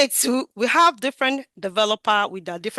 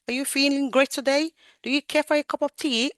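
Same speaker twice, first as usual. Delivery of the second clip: gentle nurse greeting; 4 semitones higher than usual. Shown as a demonstration. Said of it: "you don't speak with a pitch high".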